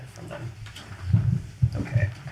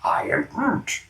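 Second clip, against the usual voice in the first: breathy, higher whisper; friendly Groot whisper; 14 semitones higher, slower than usual. Acted. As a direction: whisper it like a kindly tree. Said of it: "weird tree smile that looks really friendly".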